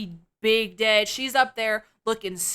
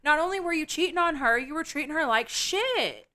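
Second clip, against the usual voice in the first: higher, fast indignant tirade; indignant rant; 6 semitones higher than usual. Real, not acted. Telling off Trevor for cheating, fast indignant rant. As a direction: fire off the accusation, fast and high.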